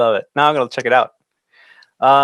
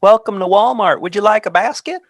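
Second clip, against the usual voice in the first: louder and higher greeter announcement; podcast announcer voice; 9 semitones higher, 6 dB louder than usual. Shown as a demonstration. Host demonstrating his announcer voice as a Walmart greeter. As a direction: show off the practiced smooth radio voice. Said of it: "I've been practicing".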